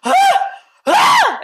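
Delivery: high laughing shrieks, loud; hammed-up screaming under the light; laughing mock screams. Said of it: "I was just like".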